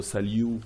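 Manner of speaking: "salut" ending like English "you"; mispronunciation demo. Shown as a demonstration. Teacher showing what not to say, English "you" ending. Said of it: "and not".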